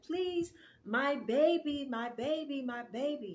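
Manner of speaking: high-pitched imitation of a screaming mother; mock desperate scream. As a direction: cry out high, drawing out each plea. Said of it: "at the top of her lungs".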